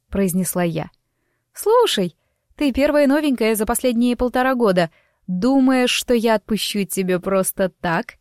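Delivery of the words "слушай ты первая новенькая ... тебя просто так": a lively gossip, light and quick; chatty young woman. Acted. Narrator voices chatty Lima.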